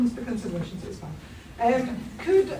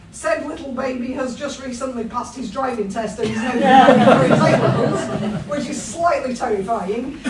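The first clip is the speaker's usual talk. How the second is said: laughing; 6 dB louder than usual. Real, not acted. Laughing about her son driving.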